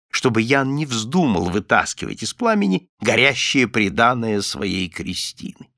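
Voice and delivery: usual speaking voice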